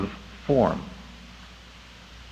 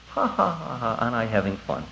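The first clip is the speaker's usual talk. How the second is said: mock laughter; 3 semitones lower, 7 dB quieter than usual. Mimics forced party fun.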